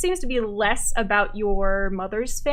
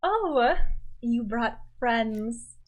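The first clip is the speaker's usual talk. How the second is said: condescending; much slower than usual. Acted. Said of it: "and goes".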